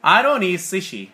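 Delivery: "I don't eat sushi" with "don't eat" as one run; linked, weak T. Shown as a demonstration. Teacher repeats for student, "don't eat" linked with weak T. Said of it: "T 사운드를 약하게 발음하는 거죠".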